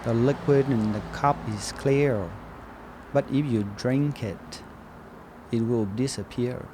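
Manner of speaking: slow, soft, drawn-out put-on accent; measured caricature, each phrase spaced out; mock Chinese accent. Shown as a demonstration. Describing the cup's liquid on request, slow soft mock accent. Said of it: "tell me about what you think about the liquid in this cup".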